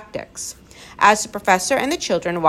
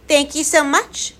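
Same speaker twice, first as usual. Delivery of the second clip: polite; 9 semitones higher, 4 dB louder than usual. A narrator's reading. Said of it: "Tom managed to say politely".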